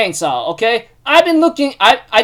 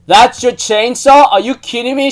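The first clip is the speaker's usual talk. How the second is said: disbelief; 5 semitones higher, 3 dB louder than usual. Retold or imitated. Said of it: "And everyone's like".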